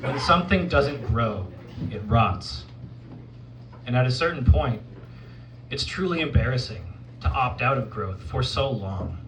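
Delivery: deliberate spoken word with spaced phrases; poetry recital. Acted. Poet offering advice to the audience, poetry recital. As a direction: recite it as measured, earnest counsel.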